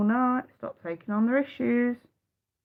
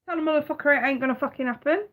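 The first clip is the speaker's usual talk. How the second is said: higher, fast and blunt; blunt telling off; 6 semitones higher, faster than usual. Retold or imitated. To a man who keeps coming back, blunt and quick. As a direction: fire it off, no softening. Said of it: "I actually said it like that".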